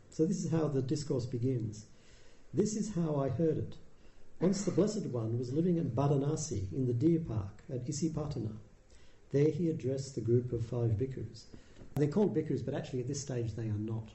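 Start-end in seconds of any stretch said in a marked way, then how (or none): 2.5-11.5 put-on measured recitation of an old text; scripture reading. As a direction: read it like a sacred text, evenly. Reads sutta text aloud.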